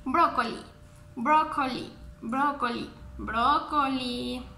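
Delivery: "brócoli" said just as in Spanish; pronounced as in Spanish. Shown as a demonstration. Teacher showing children brócoli is like Spanish, "brócoli" in Spanish sounds. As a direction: model "brócoli" with Spanish sounds, stressed BRÓ. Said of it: "se pronuncia totalmente igual que en español".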